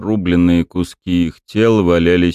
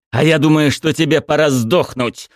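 feral vampire; 9 semitones higher than usual. A narrator's reading. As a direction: spit the threat at him. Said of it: "выплюнул он".

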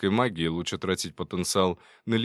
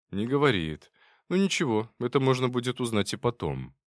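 ordinary delivery

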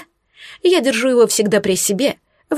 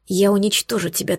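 furious whispered threat, slowing down at the end; angry hiss. Acted. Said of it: "Шипела я злобно".

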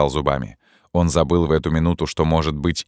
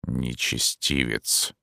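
low, much softer, very slow mutter; 5 semitones lower, 7 dB quieter, much slower than usual. A narrator's reading. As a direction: mutter it with contempt. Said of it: "пробормотал призрак". (пробормотать глухо)

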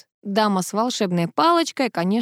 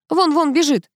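a raised, straining cry, pitched up; straining yell; 8 semitones higher than usual. A narrator's reading. Igor yells at the running mice, straining. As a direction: Igor yelling himself hoarse, pointing. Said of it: "надрывается Игорь".

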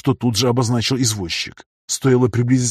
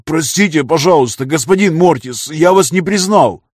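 frightened apology; 5 semitones higher, 6 dB louder than usual. A narrator's reading. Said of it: "побледнел от страха".

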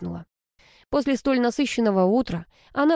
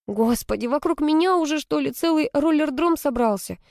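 angry; 7 semitones higher than usual. A narrator's reading. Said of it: "сердилась Алла".

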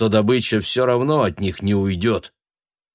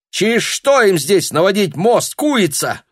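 high, loud scornful sneer; contemptuous jibe; 12 semitones higher, 5 dB louder than usual. A narrator's reading. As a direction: sneer at her. Tanya insulting Irishka. (презрительно)

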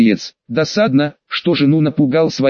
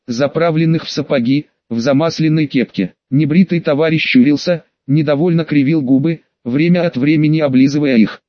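ordinary delivery

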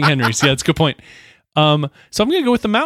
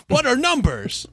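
baffled medieval peasant; 7 semitones higher, 3 dB quieter, slower than usual. Pretend. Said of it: "what is this demonry".

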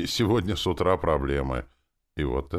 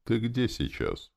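slow, higher, mildly weary question; tired; 8 semitones higher, slower than usual. A narrator's reading. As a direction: ask it slowly with some weariness. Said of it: "Я устало спросил".

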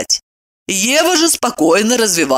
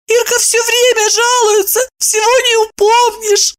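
much higher, crying mumble; tearful mumble. A narrator's reading. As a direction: mumble it through tears. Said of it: "заливаясь слезами, промямлила".

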